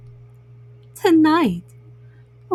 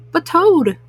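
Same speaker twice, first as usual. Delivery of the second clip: crying out; 5 semitones higher, 4 dB louder than usual. Acted. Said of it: "cried Frog".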